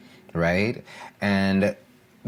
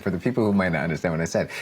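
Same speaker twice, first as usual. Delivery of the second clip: fast; much faster than usual. Shown as a demonstration. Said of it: "my poor Jamaican accent".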